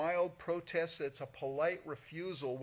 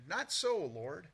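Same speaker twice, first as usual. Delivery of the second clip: shocked protest; 3 semitones higher, slower than usual. Retold or imitated. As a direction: recoil at the command. Peter protesting to God.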